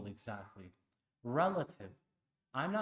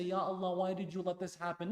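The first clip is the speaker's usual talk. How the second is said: whiny complaint; 5 semitones higher, 3 dB louder, faster than usual. Retold or imitated. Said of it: "So you don't say".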